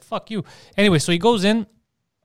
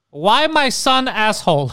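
Poseidon's dad; 5 semitones higher, 6 dB louder, slower than usual. Acted. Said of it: "when his dad sends one in".

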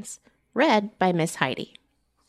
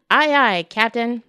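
eager salute; 3 semitones higher, 6 dB louder than usual. Acted. Emma salutes the captain.

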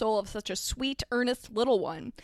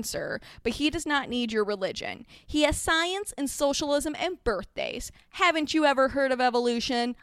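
lightly saccharine politeness; sweetly condescending, only mildly put on; a touch of syrupy disapproval; sickly sweet. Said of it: "her voice was sickly sweet".

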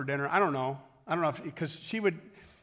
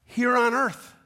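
loud, high, driving sermon voice; preaching at full force; 6 semitones higher, 7 dB louder than usual. Acted. Pastor drives home a point to the congregation, full-force preaching. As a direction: preach it hard to the room.

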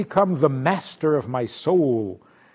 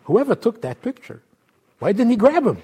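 comedian impression; 8 semitones higher, faster than usual. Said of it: "he says".

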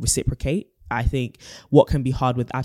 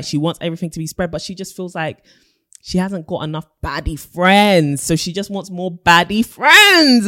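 put-on American accent; 5 semitones higher, 6 dB louder than usual. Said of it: "I'm only going to get worse".

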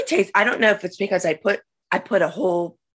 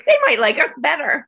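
laughing; 6 semitones higher, 3 dB louder than usual. Real, not acted. Both laughing hard.

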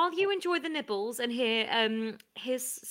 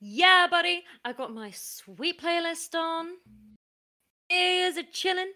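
hyped party host; 3 semitones higher than usual. Acted. Host alone before guests arrive, hyped-up. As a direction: psych yourself up for a party.

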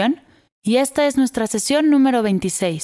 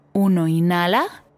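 slow breath counting; 3 semitones lower, slower than usual. Acted.

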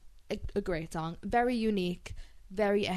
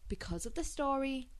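whisper; 5 semitones higher, 7 dB quieter than usual. Real, not acted. Whispered aside.

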